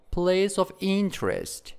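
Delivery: "place of interest" with stress on INTEREST; stress on second word. Shown as a demonstration. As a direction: lean on the start of "interest", then fall. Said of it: "in the second word".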